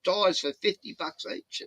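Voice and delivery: high, loud, amazed "oh really"; impressed tyre guys. Retold or imitated. Tyre shop staff wowed by customer, excited high. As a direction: play the dazzled shop staff giving a deal. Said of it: "They go".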